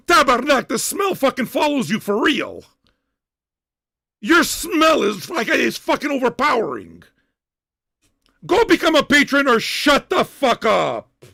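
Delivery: loud, dragged-out insults; angry yelling. Real, not acted. Host telling a commenter to become a patron, angry yell. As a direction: berate them at the top of your temper. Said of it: "why I'm yelling right now".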